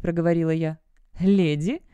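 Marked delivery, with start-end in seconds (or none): 1.2-1.8 surprised. A narrator's reading. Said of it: "удивлённо уставился на меня Роберт".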